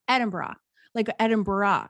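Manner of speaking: "Edinburgh" as ED-um-buh-rah; copying an Irish woman's "Edinburgh"; imitated Irish pronunciation. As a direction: give "Edinburgh" a light extra syllable, Irish-style. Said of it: "with her Irish accent, she was saying".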